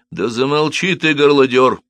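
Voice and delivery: high, loud rebuke; ordering silence. A narrator's reading. Officer silencing the shouting cobbler, sharply ordering. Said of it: "приказал ему офицер".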